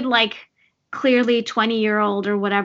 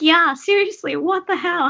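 higher and louder, indignant cry; outraged disbelief; 8 semitones higher, 4 dB louder than usual. Retold or imitated. Viewer reacting to the kid's sad story, loud and indignant. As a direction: throw up your hands at the unfairness. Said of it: "I'm like".

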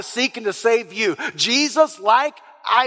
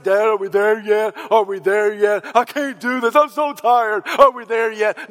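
put-on tired whining child; whiny kid. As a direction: complain like a worn-out little kid. Whiny child voiced in story.

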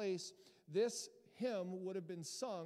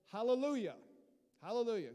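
proclaimed; 4 semitones higher, 7 dB louder, faster than usual. Shown as a demonstration. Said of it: "Can we say that?".

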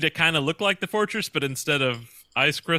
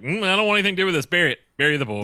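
fast, higher, dramatic; dramatic Superman voice; 5 semitones higher, 3 dB louder, much faster than usual. Retold or imitated. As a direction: rush it out like a spooked hero. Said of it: "he was like".

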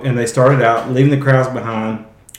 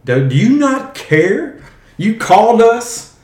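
angry complaint; 8 semitones higher, 4 dB louder than usual. Retold or imitated. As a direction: rail at him like a betrayed follower. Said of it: "they're mad at Jesus here".

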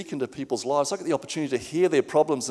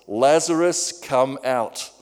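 measured, mildly raised calling voice; loud call; 3 dB louder, much slower than usual. Acted. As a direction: call out with restrained force, as if summoning someone. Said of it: "Jesus called in a loud voice".

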